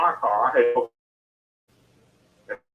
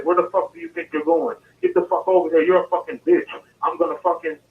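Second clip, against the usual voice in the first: retold screaming; 5 semitones higher than usual. Buyer yelling threats after the car hit him, retold shout. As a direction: shout it back the way he yelled it, half-hearted. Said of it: "He's screaming".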